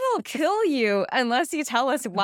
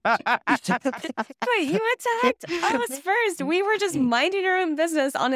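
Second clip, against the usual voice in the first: higher, very slow, outraged stretch; indignant protest; 7 semitones higher, slower than usual. Acted. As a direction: drag it out in disbelief.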